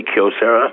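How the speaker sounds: "Kyocera" with Kyo as a single syllable; Japanese pronunciation. Shown as a demonstration. Guest prompting the host to try it, "Kyocera" with one-syllable Kyo. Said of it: "Kyo being one syllable".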